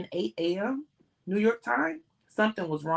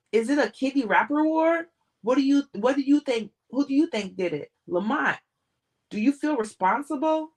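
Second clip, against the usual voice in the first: pushy reporters, higher and louder; shouting reporters; 7 semitones higher, 5 dB louder than usual. A narrator's reading. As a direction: fire questions over the crowd.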